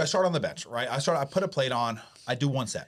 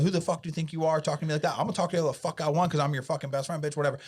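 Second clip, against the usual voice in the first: retold argument; 4 semitones higher than usual. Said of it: "we got in a huge argument".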